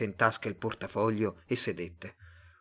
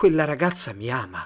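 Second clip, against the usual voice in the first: plain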